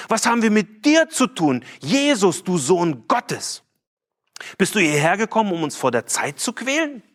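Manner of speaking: half-hammed plea of the demons; mock demon cry. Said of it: "die schreien ganz ähnlich".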